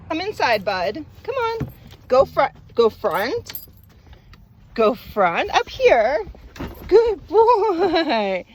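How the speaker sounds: talking to a dog. Real, not acted. Settling the dog inside.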